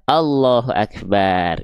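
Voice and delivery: measured recitation, breath not S in Akbar. Shown as a demonstration. Teacher repeating the corrected phrase, Akbar slow with light breath.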